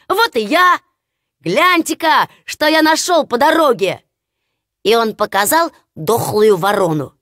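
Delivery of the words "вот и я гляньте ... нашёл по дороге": higher, gleeful bragging; excited simpleton. Acted. Hans showing the dead crow to his brothers, gleeful. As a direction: show off a treasure like a proud fool.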